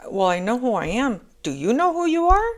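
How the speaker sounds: a confident feminine challenging the masculine; self-assured challenge. Retold or imitated. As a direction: ask him if he knows who he is. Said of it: "This is like".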